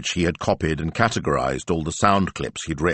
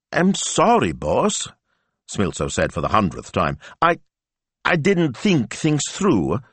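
miserable Smilzo; 7 semitones higher than usual. Acted. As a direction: apologise in misery.

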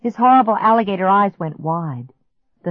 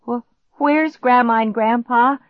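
higher, alarmed stuttered question; frightened stammer; 6 semitones higher, 4 dB louder than usual. A narrator's reading. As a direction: stumble on the first word in panic.

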